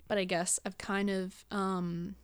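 words broken by a burp. Real, not acted. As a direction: talk through a small burp. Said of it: "sorry, I keep burping".

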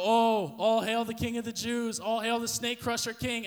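sneering mock worship of a fake king; mocking hail. Guards jeering at Jesus as king, mocking.

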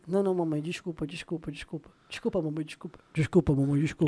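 low, soft, fading pleading; meek apology. Retold or imitated. Son apologizing to his mother, low and fading. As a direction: shrink down and beg sorry quietly. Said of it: "Aí ele".

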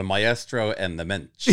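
laughing Yiddish accent, drawn out. Shown as a demonstration. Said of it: "How would you say that?".

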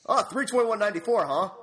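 lightly snide retold attitude; condescending. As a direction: imitate a clerk sceptically reading back a birthdate. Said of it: "she's fucking condescending".

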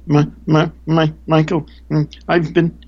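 put-on high, halting voice of a frightened older woman; timid woman's voice. Speaker imitating the woman asking for hope, high and halting. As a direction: stammer it out, small and high, pleading. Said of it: "and she goes".

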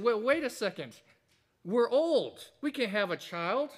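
Zechariah's doubting protest. Retold or imitated. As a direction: raise the voice in mild disbelief, wait a second. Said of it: "because Zechariah said".

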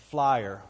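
"flyer" said the Texan way, one long drawn "flah-yer"; Texan pronunciation. Shown as a demonstration. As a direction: say "flyer" like a Texan merging fire and flower. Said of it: "It's all the same word".

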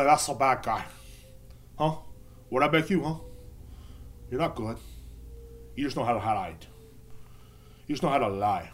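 lightly faked gangster speech with long pauses; Scarface. Banned man lecturing his accusers, mock Scarface. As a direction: goad them like a movie gangster. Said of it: "can't do a good Scarface impression".

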